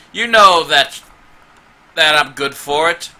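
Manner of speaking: loud, insistent dwarf haggling; arguing dwarf voice. Acted. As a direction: argue like a wronged dwarf on the road. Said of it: "One of them is a dwarf voice, going".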